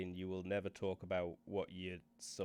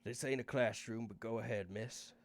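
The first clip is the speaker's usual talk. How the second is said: lightly voiced Northern English boss; a touch of a Northern English accent, unhurried. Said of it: "Garth's suddenly English and Northern".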